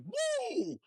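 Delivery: a sudden high whoop of joy; excited whoop. Retold or imitated. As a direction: let out a thrilled woo on the mic. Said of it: "I was like".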